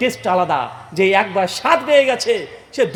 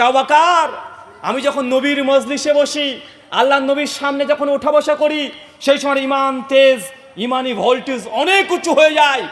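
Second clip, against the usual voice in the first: raised, declaimed preacher's plea; impassioned pleading; 4 semitones higher than usual. Acted. Hanzala explaining his changing faith to Abu Bakr, impassioned. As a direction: call out, then explain fervently. Acted preaching at full force.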